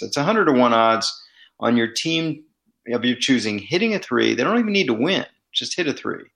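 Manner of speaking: upbeat sponsor ad read. Acted. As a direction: sell it like a radio ad.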